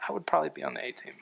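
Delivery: quick, very soft aside; mock humble boast. Churchgoers who think they're special, quietly self-satisfied. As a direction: slip the boast in fast under the breath. Mocking self-important believers' private thought.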